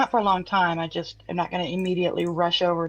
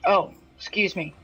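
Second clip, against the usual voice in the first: goblin voice. Acted. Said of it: "In Goblin".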